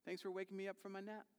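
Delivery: lightly voiced drowsy Jesus, high and easy; breezy high greeting, fast on the thanks; high casual just-woke-up voice. Jesus waking to his panicking disciples, breezy and high. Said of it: "he's like".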